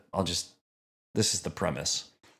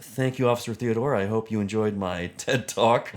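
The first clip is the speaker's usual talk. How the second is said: lightly voiced, polite lecturer; a touch of formal courtesy signing off; Neil deGrasse Tyson. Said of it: "Neil's just so polite".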